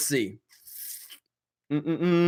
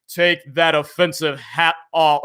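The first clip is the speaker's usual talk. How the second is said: a slow, lightly prim scold; proper Jeremy voice. Acted. Streamer to chat, slowly doing a lightly prim proper Jeremy scold. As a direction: scold like an uptight, proper guy. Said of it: "I can't get the proper Jeremy voice".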